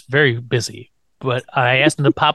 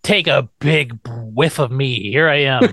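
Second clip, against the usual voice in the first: a hammed-up vain pose, savouring each word; mock diva; slower than usual. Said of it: "she's just kinda standing there like".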